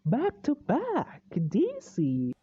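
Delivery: retold wow, pitch swooping up; drawn-out impressed disbelief; impressed reaction. Vlogger recalling two good DC films, impressed reaction. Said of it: "And, and I was like".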